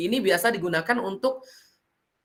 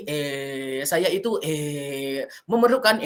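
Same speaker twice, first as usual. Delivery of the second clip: hesitant speaker; 4 semitones lower, much slower than usual. Shown as a demonstration. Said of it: "Kebanyakan E".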